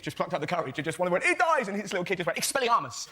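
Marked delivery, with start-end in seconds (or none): 1.2-1.7 put-on high, loud childish yell; kid's shout. Little kid shouting spoiler. 2.4-3.1 spell shout. Retold or imitated. Kid casting spell back.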